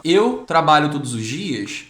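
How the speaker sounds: eu trabalho todos os dias, said slowly and loud; a teacher's slow example sentence. Shown as a demonstration. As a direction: read the model sentence out deliberately. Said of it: "se eu quero falar assim".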